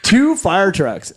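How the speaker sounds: slow, incredulous weight on "Two"; stress on TWO. Real, not acted. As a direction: repeat it slowly, leaning on "Two". Repeats the reveal for effect.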